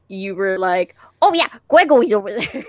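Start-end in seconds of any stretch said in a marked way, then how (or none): 1.2-2.6 quick, high lisping voice; lightly voiced lisping character. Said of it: "in your character voice".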